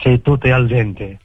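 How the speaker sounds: slow, mock Italian accent.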